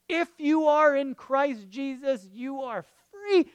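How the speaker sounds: high, ringing declaration of freedom; emphatic proclamation. Real, not acted. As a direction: proclaim it with full conviction. Preacher proclaims freedom after hushed doubts.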